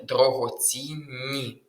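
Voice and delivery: «дорогоцінні» с долгим двойным «н»; раздели «дорогоцінні» на стыке двух «н»: дорогоцін-ні; удвоенная согласная. Shown as a demonstration. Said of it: "подвоєння у цих словах".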